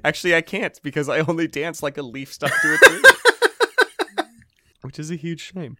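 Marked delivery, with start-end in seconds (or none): 0.0-3.0 laughing. Pretend. Princess spinning, laughing shout. 3.1-4.2 high shrieking laugh; loud high laugh. Real, not acted. Loud laugh after joke.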